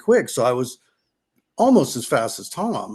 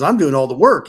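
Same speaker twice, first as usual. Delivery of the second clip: mock annoyed; 7 dB louder than usual. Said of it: "Tom would get pissed".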